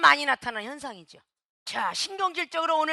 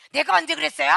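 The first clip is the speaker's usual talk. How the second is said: louder indignant denial with stress on 언제; defensive outburst stressing 언제; 2 semitones higher, 5 dB louder, faster than usual. Retold or imitated. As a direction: push back, insisting on 언제. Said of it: "이러고 변명이 나오기 시작한다".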